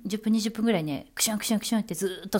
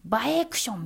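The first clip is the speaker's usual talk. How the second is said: mock sneeze; 3 semitones higher than usual. Shown as a demonstration. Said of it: "声で言うなら".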